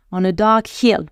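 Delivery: "hill" with an audible breathed H; English "hill" with deliberate aspirated H; sounded H. Shown as a demonstration. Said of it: "le H sonore".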